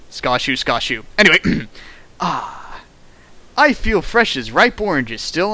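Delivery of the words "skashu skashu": snoring noise. Pretend. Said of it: "Pretend that, uh, we're, uh, sleeping".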